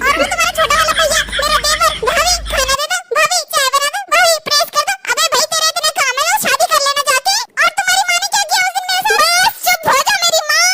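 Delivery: loud, exasperated complaining; wife ranting at husband. Acted. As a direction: shout out the list of grievances. Loud rant about in-laws.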